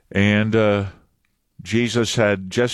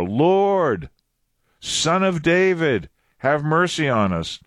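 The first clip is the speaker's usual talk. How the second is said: higher, drawn-out plea; crying out all the more; 5 semitones higher, slower than usual. Acted. Blind men calling to Jesus over the crowd, insistent crying out. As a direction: cry out for mercy with growing insistence. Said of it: "They cried out all the more".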